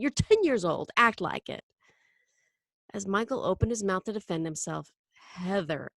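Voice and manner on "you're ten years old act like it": mildly impatient scolding; exasperated. Acted. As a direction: tell the child off, a touch fed up. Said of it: "Mom looked exasperated".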